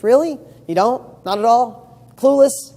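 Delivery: acted-out skeptical prodding; mock disbelief. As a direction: challenge them with exaggerated surprise. Mock questioning of claimed helplessness.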